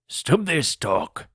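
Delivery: angry pirate captain shouting. A narrator's reading. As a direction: cut the men off with a pirate's command. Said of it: "shouted Silver".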